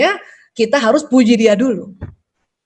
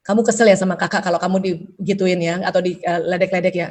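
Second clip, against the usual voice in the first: soothing mother; 5 semitones lower, 4 dB quieter than usual. Shown as a demonstration. Mother soothing upset child.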